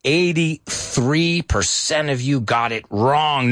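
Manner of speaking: slow, drawn-out disappointed announcement; a mock-heavy reading of the score; slow lament. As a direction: spell out the bad news slowly. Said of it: "I say, no applause".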